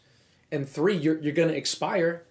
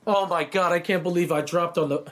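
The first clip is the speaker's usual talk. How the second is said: mock panic; 4 semitones higher, 4 dB louder than usual. Mock gamer freaking out.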